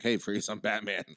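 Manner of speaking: casually laughing imitation of Clooney; nonchalant. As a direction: toss it off, laughing, like saying hi to a buddy. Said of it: "like, nonchalant".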